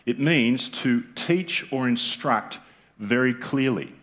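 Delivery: said slowly so each word lands; slow emphatic restatement; slow, deliberate repeat. Shown as a demonstration. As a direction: repeat it slowly for the hall to catch. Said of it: "Did you hear that?".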